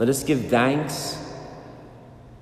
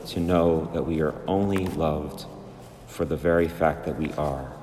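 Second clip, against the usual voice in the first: prayer; 5 semitones lower, 4 dB quieter than usual. Real, not acted. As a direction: pray it unhurriedly, phrase by phrase. Closing prayer to the Spirit.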